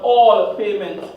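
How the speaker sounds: "All" drawn out slowly; stress on All. Shown as a demonstration. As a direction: lean slowly on the word "All". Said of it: "Emphasize, emphasis on the word what?".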